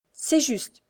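sweet, oily, ingratiating tone; butter them up with honey-sweet words. A narrator's reading. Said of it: "d'une voix mielleuse".

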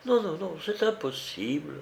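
flustered, high refusal; agitated refusal. A narrator's reading. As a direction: protest in a flutter. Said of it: "se mit à marcher avec agitation".

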